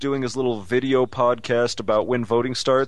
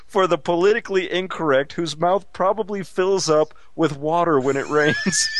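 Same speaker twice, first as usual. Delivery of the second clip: Billy Bob Thornton impression; 4 dB louder than usual. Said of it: "why am I impersonating him?".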